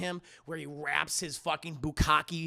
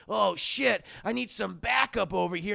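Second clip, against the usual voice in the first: mock action hero; 4 semitones higher, 5 dB louder than usual. The speaker calls for help in battle.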